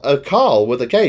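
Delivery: Carl said kʰɑl, R dropped; British Carl on request. Shown as a demonstration. Asked to repeat the word, says Carl without R. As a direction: say Carl with a K again, no R. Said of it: "say that word again".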